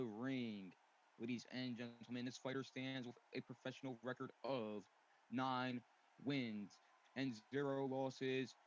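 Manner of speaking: boxing ring announcer. Acted. Ring announcer introducing fighter.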